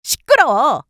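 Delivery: loud, high cutting shout; angry snap. Acted. Wife silencing begging husband, loud and angry. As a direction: cut his begging off.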